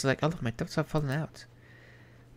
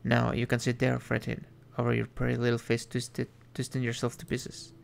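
deep devil voice. Acted. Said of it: "The man's deep voice".

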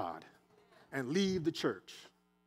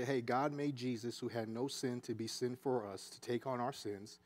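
simple gentle witness; 5 semitones lower, 7 dB quieter than usual. Pretend. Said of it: "We could simply say".

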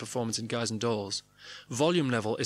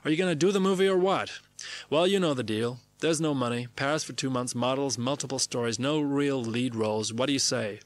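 Robert Altman. Acted. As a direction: put on the director's voice, pitching a deal. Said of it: "get the call from Robert Altman".

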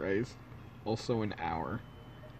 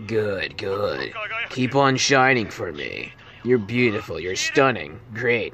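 creepy photographer; 4 semitones lower, slower than usual. Acted. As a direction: coo compliments like a creep. Killer voice praising victim.

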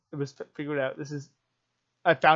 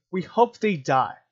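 slow, louder, bitter repeat of the chant; angry quoting; 5 dB louder, slower than usual. Retold or imitated. Quoting protesters to viewers, slow angry emphasis. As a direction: spit the quoted words back, slowly. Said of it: "I'm getting yelling and get a little bit emotional".

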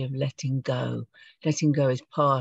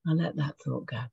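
soft letting-go voice, trailing quieter; gentle; 5 dB quieter, faster than usual. Shown as a demonstration. Teacher showing the group a gentle, soft release. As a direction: ease the thought away softly. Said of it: "Do you see how gentle that is?".

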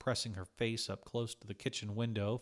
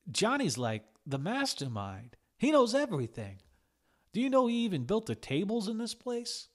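much higher, louder admiration; a starstruck worker praises the boss; awed gushing; 11 semitones higher, 6 dB louder than usual. A narrator's reading. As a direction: rave about him like a fan. Augie gushing about Johnny.

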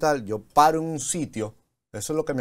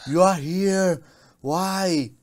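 English; 5 semitones higher, much slower than usual. Retold or imitated. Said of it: "Empezaste a hablar inglés".

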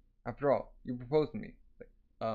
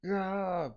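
high, drawn-out "aah"; mock wail of panic; frantic cry; 7 semitones higher than usual. Acting out Alibaba losing his mind.

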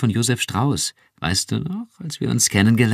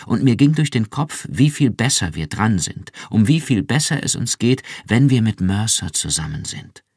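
viel höher und lauter, schwärmend; ekstatisch; 5 semitones higher, 4 dB louder than usual. Acted. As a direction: sich in Begeisterung steigern. (Iran schwärmt Rick ekstatisch vom Mitgefühl vor)

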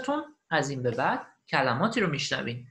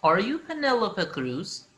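slow question for learners to copy; listen-and-repeat model; 3 semitones higher, 4 dB louder, much slower than usual. Shown as a demonstration. Teacher repeats the recording for learners, slow model. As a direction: say it slowly, ending on a rise. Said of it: "and repeat و قرار شما تکرار کنید".

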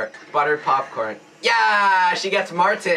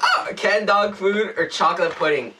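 laughing; 4 semitones higher than usual. Real, not acted. Laughing at the bad bean.

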